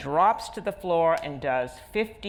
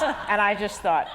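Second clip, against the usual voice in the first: laughing; 4 semitones higher, 4 dB louder than usual. Real, not acted. Laughing while retelling her anger.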